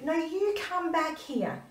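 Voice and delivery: a mother squaring up, voice climbing; challenging him. Retold or imitated. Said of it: "And I said to him".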